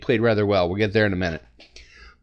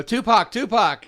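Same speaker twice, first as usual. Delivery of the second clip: higher-pitched imitation of a quarterback's call; mock line-of-scrimmage yell; 9 semitones higher, slower than usual. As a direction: call it out like a mild mock audible. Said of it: "he's yelling stuff like that".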